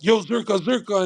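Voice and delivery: a hint of eager attention-seeker; imitated pestering fan. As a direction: mimic a fan trying to get noticed.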